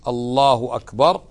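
"الله أكبر" with a short u and no w; without waw. Shown as a demonstration. Teacher giving the correct takbir. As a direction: say it cleanly, no added w. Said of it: "من غير واو".

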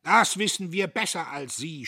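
high, loud retort; indignant, overbearing shout. A narrator's reading. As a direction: shout him down. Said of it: "schrie Diederich".

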